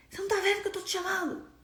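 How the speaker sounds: high, rushed mock shouting; imitated yelling. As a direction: mimic someone impatiently yelling for attention. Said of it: "você tá gritando".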